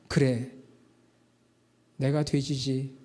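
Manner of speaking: low, hushed self-admission; subdued, soft and low acceptance; humbled realization. Retold or imitated. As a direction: quietly concede it to yourself. Rich man's humbled realization.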